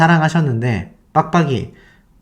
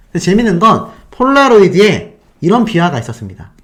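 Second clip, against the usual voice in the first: usual speaking voice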